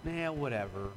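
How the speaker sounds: soft, offhand and bored; indifferent shrug of a line; dismissive. Shown as a demonstration. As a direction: toss it away, not caring. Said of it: "It's not just".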